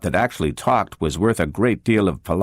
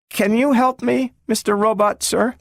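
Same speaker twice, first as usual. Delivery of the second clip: put-on much higher, cautious and doubtful child voice; a small girl timidly addressing a big machine; treble little girl; 14 semitones higher than usual. A narrator's reading. Little Gloria politely asks the robot, timid and high.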